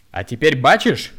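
hysterical bark. A narrator's reading. Woman hysterically barks at the young man. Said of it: "истерично гаркнула".

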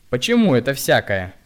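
loud mocking question; needling jab. A narrator's reading. Bystander woman needles the hunchback, loud and mocking. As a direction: needle him. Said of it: "подсатанила одна женщина".

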